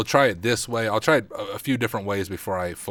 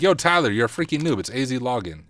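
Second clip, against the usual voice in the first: raised, higher-pitched mock heckle, easing off at the end; half-hearted yell at a clueless streamer; 3 semitones higher, 4 dB louder than usual. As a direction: imitate an exasperated viewer yelling at the screen. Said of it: "Someone was yelling at their computer like".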